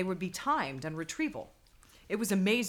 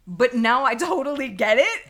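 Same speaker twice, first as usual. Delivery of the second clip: laughing; 2 semitones higher, 10 dB louder than usual. Retold or imitated. Laughing quote.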